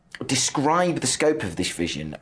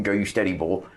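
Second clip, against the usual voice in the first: bad Norfolk accent. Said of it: "That was a very bad Norfolk accent".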